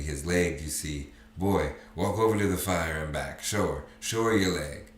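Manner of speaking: father eagerly urging his son to show his leg; excited. Acted. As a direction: push on with eager hope. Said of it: "he went on excitingly".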